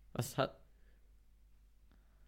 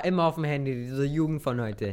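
put-on grumpy old man; 4 semitones higher, 4 dB louder than usual. Mocking friend on phone.

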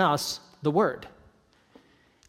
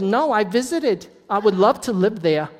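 mock New York accent, slightly raised; 3 semitones higher, 4 dB louder than usual. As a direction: do a hammy New York woman's voice. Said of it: "That's my New York".

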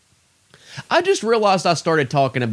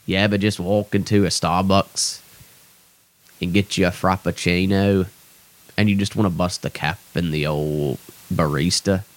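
put-on British DJ accent; 4 semitones lower than usual. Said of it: "it's a British D J that's not funny, and he's like".

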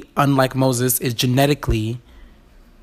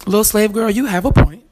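regal queen; 6 semitones higher, 4 dB louder, faster than usual. Retold or imitated. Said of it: "the queen goes".

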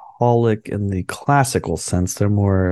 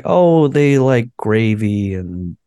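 slow, lightly mocked Midwestern accent; simple Midwestern accent; slower than usual. Podcaster mimicking simple Midwesterners for the co-host, mock Midwestern accent. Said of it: "Your Midwestern accent is more just, like, simple".

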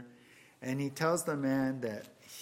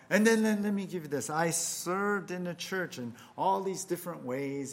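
fast, higher, louder eager pitch; hurried bargaining; 3 semitones higher, 4 dB louder than usual. Acted. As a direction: rush the next offer hoping it counts. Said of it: "man keeps bargaining with Peter".

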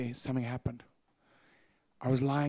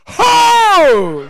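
high, loud "Ho!" bursting out laughing; involuntary shout; 16 dB louder than usual. Retold or imitated. Preacher on the floor shouting back, laughing loud burst. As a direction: let it escape as a laughing shout. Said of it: "I shouted".

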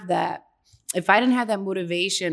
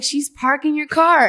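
raised, louder retold insistence; insistent reply; 7 semitones higher, 6 dB louder than usual. Retelling her answer to drunk friend, loudly insistent. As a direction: insist over a tipsy friend, louder and higher.

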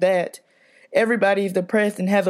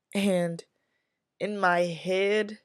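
much softer, slow and hushed; 7 dB quieter, slower than usual. Acted. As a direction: drop almost to a whisper. Hushed turn in poem.

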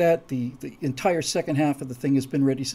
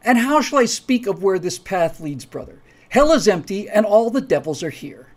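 mildly annoyed Shakespearean retort, slightly raised; a little ticked off; 4 semitones higher, 5 dB louder than usual. Acted. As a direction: answer your brother with theatrical irritation. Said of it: "getting a little ticked off".

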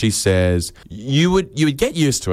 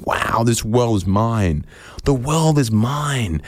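slow grand musing; slower than usual. Pretend. Gazing at view from deck.

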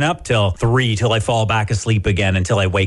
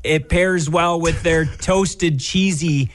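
put-on Spanish accent; 4 semitones higher, slower than usual. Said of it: "when you try to do a Spanish accent".

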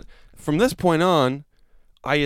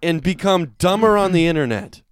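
raised parting shot; 4 semitones higher, 4 dB louder than usual. Retold or imitated. Her closing line to the heckler, loud parting shot. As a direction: deliver the closing line big. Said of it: "my closing line was".

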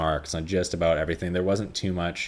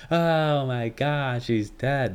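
shocked; 7 semitones higher, much slower than usual. Pretend. Mock expected reaction.

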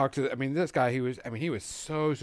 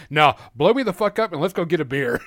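laughing insistence; 4 semitones higher, 8 dB louder than usual. Retold or imitated. Tells opponent to end game.

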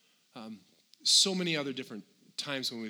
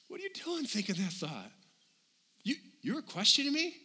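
higher, outraged voice of a stern father; mock tyrannical God; 12 semitones higher than usual. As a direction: play an offended, scolding father in heaven. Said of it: "this tyrannic father".

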